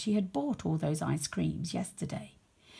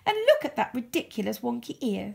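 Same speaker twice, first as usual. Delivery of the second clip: snooty poodle; 5 semitones higher, faster than usual. Acted. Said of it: "giggling and whispering".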